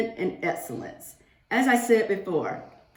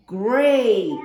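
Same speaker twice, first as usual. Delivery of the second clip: loud, bright great; cheerful praise; 6 dB louder than usual. Real, not acted. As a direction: reward the class happily. Children answered yes.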